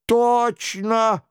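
high-pitched mock king; mock-royal penitent; imitating the king. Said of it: "подражая голосу короля".

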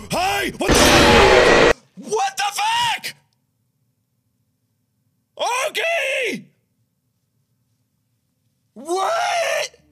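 high, loud startled yells; shocked screaming. Real, not acted. Jump scare by Golden Freddy.

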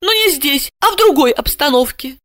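put-on high, timid young woman's voice; babbling grieving woman. Asya to her boss, high timid babbling. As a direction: murmur it nervously, high. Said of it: "она пролепетала".

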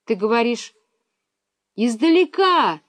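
put-on girl shouting into phone. A narrator's reading. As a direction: shout over a bad line. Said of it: "закричала Миронова".

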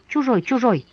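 silent repeating. Acted. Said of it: "молча твердила она".

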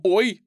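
sharp high loud ouch; boy yelping after a bonk on the head; cry of pain. A narrator's reading. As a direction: yelp as if hit on the head. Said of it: "Ник вскрикнул".

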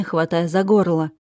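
usual speaking voice

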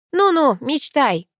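high, slow scoff. A narrator's reading. Sister brushes off Миша's flirting, scoffing. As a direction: dismiss it with teasing mockery. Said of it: "хмыкнула Ангелина".

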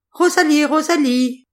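high, loud and rushed calling; a tiny mouse calling out hastily; hurried little mouse voice. A narrator's reading. Mouse hurriedly calling Rosalie, high and rushed. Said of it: "dit précipitamment la petite voix de la souris".

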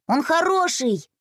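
put-on high, slow childlike plea; pleading boy. A narrator's reading. Boy defending pet to mum, high pleading voice.

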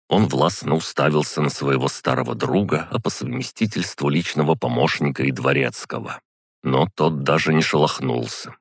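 ordinary delivery

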